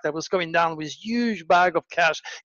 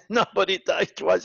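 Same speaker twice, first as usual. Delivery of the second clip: laughing; 3 semitones higher than usual. Retold or imitated. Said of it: "He was laughing his head off".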